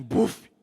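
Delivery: loud, short imitated "buf"; explosive mouth-made whump; sudden thud noise. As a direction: burst it out like a sudden impact. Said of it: "o download foi assim".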